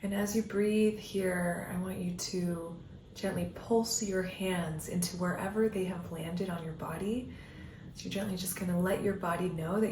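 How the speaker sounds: calm meditation guiding with long pauses; guided meditation. Acted. Coach leading listeners down an imagined path, guided meditation voice. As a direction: guide them gently inward, leaving space between phrases.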